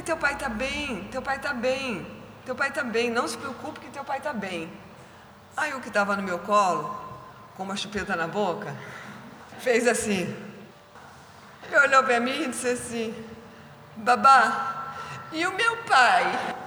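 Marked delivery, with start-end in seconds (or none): 0.0-4.7 calm the little one down; reassuring. Retold or imitated. Carer reassuring crying child. 14.0-16.6 put-on high, slow baby voice; toddler voice. Toddler with a pacifier asking his nanny, high baby voice.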